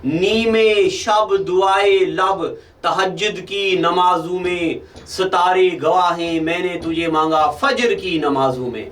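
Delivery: measured sher recital, opening phrase drawn out slowly; poetry recitation. Acted. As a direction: recite the couplet, savouring the opening words. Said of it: "सुनो अब शेर".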